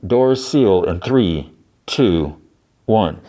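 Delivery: slow, evenly spaced robotic countdown; automated voice. Retold or imitated. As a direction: count it down like a machine announcement. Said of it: "an automated voice is like".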